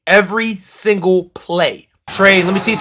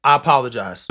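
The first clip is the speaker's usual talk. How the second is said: sheepish apology; 7 semitones lower, 6 dB quieter than usual. Real, not acted. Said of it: "I'm sorry for my outburst".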